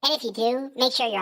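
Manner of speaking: put-on baby voice. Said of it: "the baby voice".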